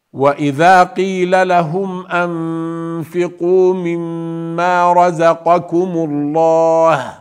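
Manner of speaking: melodic tajweed chant; Quranic recitation. Shown as a demonstration. Teacher reciting the verse to students, melodic chant. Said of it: "teacher reciting verse again".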